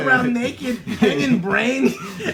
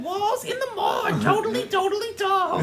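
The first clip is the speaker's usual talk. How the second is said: put-on bubbly Valley Girl accent, higher and quick; 9 semitones higher than usual. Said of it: "the Valley Girl accent".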